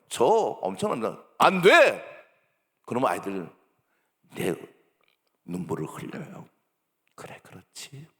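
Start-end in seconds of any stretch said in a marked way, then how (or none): 1.4-2.0 short, forceful shout of refusal; stern scolding. Acted. Speaker acting a scolding adult to children, stern shout. 7.1-8.1 very quiet, almost voiceless murmur; soft soothing. Acted. Acting an adult to a tearful child, soft soothing.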